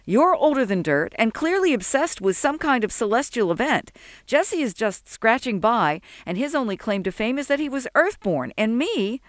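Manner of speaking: high-pitched scoffing rant; sarcastic tirade. A narrator's reading.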